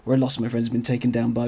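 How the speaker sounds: rough, gravelly chest cold voice; hoarse from a chest cold. Real, not acted. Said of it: "why I sound a little bit more gravelly than usual".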